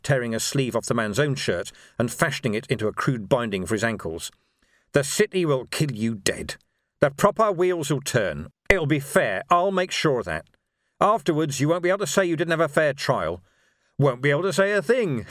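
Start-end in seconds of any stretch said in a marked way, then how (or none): 4.9-15.2 emphatic higher-pitched verdict on a captive; lawman's grim assurance; grim lawman, menacing. Acted. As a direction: drive each sentence home.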